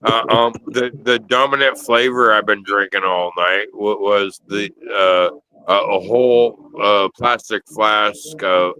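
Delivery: stumbling over words, tipsy. Real, not acted. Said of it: "I'm so hammered right now".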